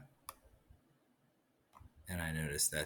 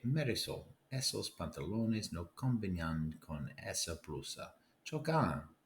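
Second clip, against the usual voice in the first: bossy big brother. Acted. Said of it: "Mi hermano dice".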